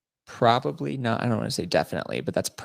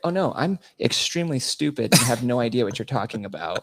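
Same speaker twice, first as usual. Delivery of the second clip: feigned stupidity; 4 semitones higher, 3 dB louder than usual. Retold or imitated. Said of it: "pretending like I can't understand her".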